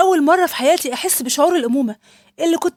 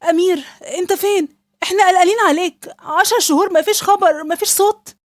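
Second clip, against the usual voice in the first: anxious pleading; 5 semitones higher than usual. Acted. Wife finally reaches missing husband.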